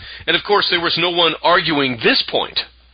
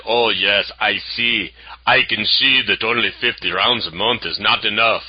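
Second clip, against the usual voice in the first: put-on half-hearted Austrian accent, a little lower; lightly attempted Schwarzenegger-style Austrian accent; bad Austrian accent; 3 semitones lower than usual. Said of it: "I don't do a very good Austrian accent".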